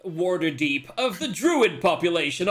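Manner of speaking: slow, grand storyteller voice opening the season; dramatic intro narration. Acted. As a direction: announce the tale of Captain Jax like a show host.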